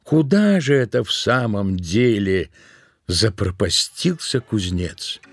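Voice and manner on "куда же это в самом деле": usual speaking voice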